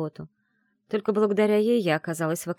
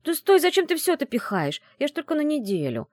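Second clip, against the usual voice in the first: grumbling; 9 semitones higher, 3 dB louder than usual. A narrator's reading. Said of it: "проворчала".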